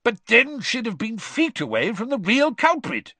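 high, insistent objection; exasperated, pressing argument; impatient. A narrator's reading. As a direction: cut in impatiently. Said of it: "said Mister Diggory impatiently".

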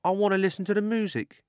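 a cabby entranced by music; eager cabby. Acted. The cabby speaks.

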